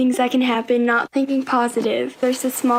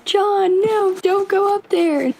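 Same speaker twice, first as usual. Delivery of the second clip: grandma calling her husband back; imitating an urgent warning; alarmed plea; 7 semitones higher than usual. Grandma stops grandpa going upstairs.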